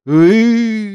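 high, loud wordless howl; anguished roar. A narrator's reading. Ulya howling in a fit at the news, high and loud. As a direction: let out a wild howl of shock. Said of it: "зарычала".

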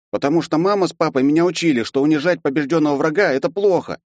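put-on high young voice, proud and earnest; a little boy proudly repeating his parents' lesson; proud boy's answer. A narrator's reading. Young Archonok proudly answering the professor, earnest. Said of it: "гордо ответил Арчонок".

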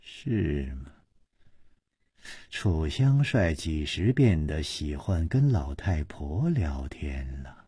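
low, soft sneering question; mock him with a cold smirk; quiet scornful taunt. A narrator's reading. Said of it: "施少奶奶冷笑着说".

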